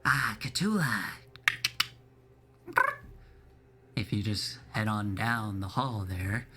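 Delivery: put-on polite old innkeeper, unhurried. DM voicing the innkeeper.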